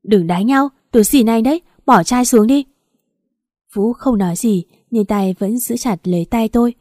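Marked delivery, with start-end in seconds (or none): 0.0-2.6 louder, pitch rising, begging them to stop; mild panicked shout; panicked yell. Acted. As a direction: cry out in panic to stop a fight. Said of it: "lao ra gào lên".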